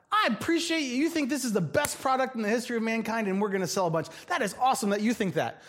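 gushing boss. Retold or imitated. Boss voiced in mock praise.

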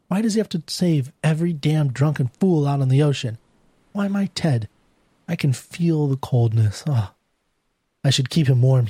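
understated anguish, pitch lifting on the questions; lightly voiced distraught wife. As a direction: lament with a touch of disbelief. Distraught wife laments missing husband.

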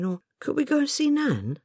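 put-on high, hopeful little girl; a child asking timidly; young girl voice. Child Jane asks hopefully.

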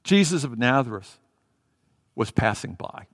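deadpan, low-key report; flat. Acted. Crowd telling the blind man who passes, flat. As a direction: state it with no life, letting it drop away. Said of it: "again, flat".

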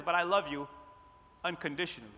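quiet word of comfort from God; gentle reassurance. Acted. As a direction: drop softly after the build-up. God's answer to called sinner.

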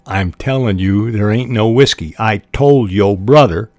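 lightly voiced Southern country man; understated country Southern denial; Southern country accent. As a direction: insist with a hint of Southern twang. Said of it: "I think, a Southern country accent".

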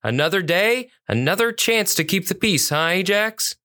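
a hint of a chipper cop, lifted voice; officer to canine partner. Officer greeting his dog partner, lightly acted and upbeat.

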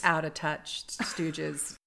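hushed self-mocking aside; a breathy conspiratorial jab; whispered aside. Real, not acted. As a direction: whisper it like a joke.

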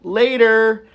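breezy high brush-off; dismissive goodbye. Retold or imitated. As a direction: toss it off, leaving. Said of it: "Lisa's like".

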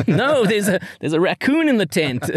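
high-pitched mock protest; mock alarm. Wife interrupts husband's advances in the tent, high mock alarm. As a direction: raise the pitch for a playful, acted-out objection.

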